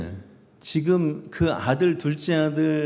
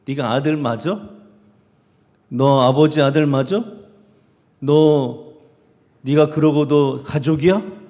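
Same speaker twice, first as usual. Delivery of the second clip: louder, challenging questions; stern rebuke; 3 semitones higher, 6 dB louder than usual. Retold or imitated. Preacher voicing Jesus rebuking the eldest son, stern challenge. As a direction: imitate a scolding, pressing each question. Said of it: "엄청나게 질책하세요".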